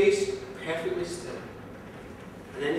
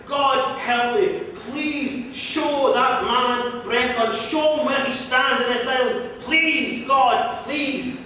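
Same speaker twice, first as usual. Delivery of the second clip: slow, pleading prayer to God; earnest prayer; 2 semitones higher, much slower than usual. Acted. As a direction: beg God slowly, word by word. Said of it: "he prayed to God as hard as he could".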